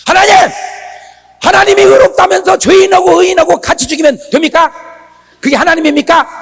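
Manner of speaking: high, loud, challenging protest; Abraham's bold prayer. Retold or imitated. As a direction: imitate Abraham confronting God at full voice. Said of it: "어떻게 기도한 줄 아세요?". (아브라함처럼 높고 크게 따지는 기도)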